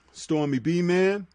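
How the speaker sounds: words stretched by a yawn. Real, not acted. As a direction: talk through a yawn. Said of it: "excuse me, I was yawning".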